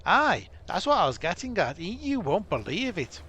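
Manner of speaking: a gruff dwarf leader, mock accent, urgent; dwarf commander. Dwarf captain warning Gwinion of disaster, in a mock dwarf accent. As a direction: warn the hero of disaster like a worried dwarf captain.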